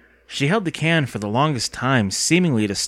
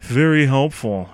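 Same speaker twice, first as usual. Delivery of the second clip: muttered gripe; 2 semitones higher, 5 dB louder, slower than usual. A narrator's reading. Boy grumbles at girl's useless advice, slow mutter. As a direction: drag out the words with some weight. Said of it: "he muttered".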